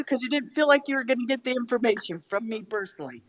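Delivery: ordinary talk, nothing marked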